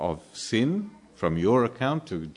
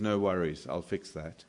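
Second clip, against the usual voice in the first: casual God reply; 3 semitones lower, 6 dB quieter than usual. Retold or imitated. God answers Habakkuk casually.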